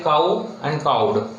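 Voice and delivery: cow and cowed, each said slowly with a full, rounded ow glide; diphthong ow in cow. Shown as a demonstration. Teacher modelling the ow sound for the class, slow and clear. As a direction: stretch the ow in cow. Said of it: "the sound in a word like".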